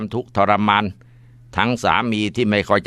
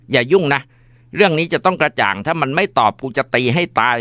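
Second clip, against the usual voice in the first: angry threat; 6 semitones higher than usual. Acted. Mother snapping back, threatening.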